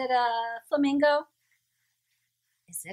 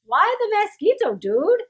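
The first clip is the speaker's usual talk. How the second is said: small chihuahua; 11 semitones higher, 7 dB louder than usual. A narrator's reading. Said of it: "asked Poquito Tito".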